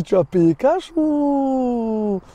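put-on slow, clumsy Russian accent with a long drawn-out ending; attempted Russian accent. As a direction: imitate a Russian mechanic, dragging it out. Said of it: "avec l'accent russe". (accent russe maladroit et traînant)

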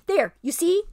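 smooth over the lie; ape's bullying voice. Acted. Ape soothes the beasts with false promises.

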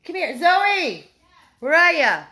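high, loud puppy calling; excited calling. Real, not acted. Calling Zoe the puppy over, excited high voice. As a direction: call the pup over with bubbling excitement.

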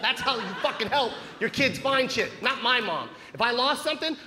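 normal talking voice

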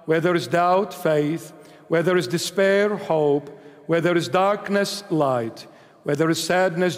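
steady, devout prayer recitation; recited prayer. Acted. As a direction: lead the congregation in prayer. Leads the closing prayer.

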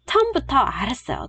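quick, light run-through of the phrase; rapid drill. Shown as a demonstration. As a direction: rattle it off fast. Fast drill of model sentence.

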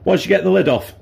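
losing voice, hoarse and strained; hoarse, voice giving out. Real, not acted. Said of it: "Sorry, I'm losing my voice a bit here".

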